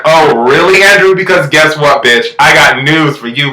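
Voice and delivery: retold sassy confrontation. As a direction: act out her calling him out.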